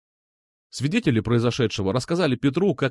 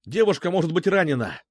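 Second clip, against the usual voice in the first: shouting; 6 semitones higher than usual. Acted. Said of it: "закричал я".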